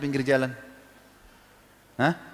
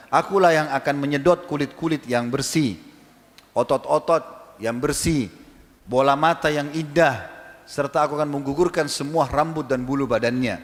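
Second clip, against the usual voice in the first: voice of the grave; slower than usual. Retold or imitated. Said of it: "tanah-tanah ini kalau bisa bicara".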